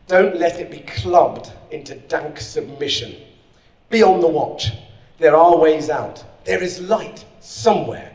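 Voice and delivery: slow, measured poem recital with weighty pauses; steady dramatic poetry reading. Acted. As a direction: read it to the room as an urging poem. Reads poem aloud.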